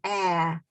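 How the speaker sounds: Ah with the mouth wide open; open vowel. Shown as a demonstration. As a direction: open the jaw on Ah. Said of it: "put your hand under your chin".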